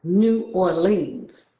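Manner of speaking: "New Orleans" said slowly and drawn out, New York style; New York pronunciation. Shown as a demonstration. New Yorker showing how her people say New Orleans, slow and drawn out. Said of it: "So we say things like".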